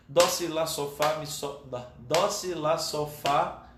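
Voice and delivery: quick note names, tripping up; stumbling fast recitation. Shown as a demonstration. Teacher attempting the descending order for students, fast and faltering. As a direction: try rattling them off backwards and stumble. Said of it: "até eu tenho dificuldade de falar rápido".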